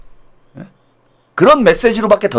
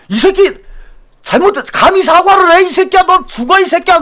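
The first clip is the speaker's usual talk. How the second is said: mock angry scolding; 9 semitones higher than usual.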